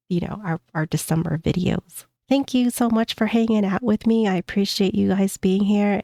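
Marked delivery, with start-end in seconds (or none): 2.3-6.0 blocked nose, stuffed up voice; talking through a head cold; stuffy nose. Real, not acted. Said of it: "I sound so stuffed up and gross".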